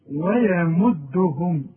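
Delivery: ويمدهم slowly with thin waw and ya; thin letters. Shown as a demonstration. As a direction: draw out ويمدهم lightly. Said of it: "اوعى تفتح لي الميم". (ويمدهم مرققة وببطء)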